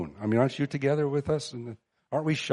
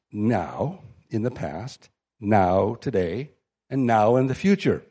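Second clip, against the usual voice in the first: "now" drawn out, very slow; slow and deliberate; slower than usual. Real, not acted. Preacher slowly stressing every "now" for the listeners. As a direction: spell out each "now" slowly. Spelling out now in past, today, future.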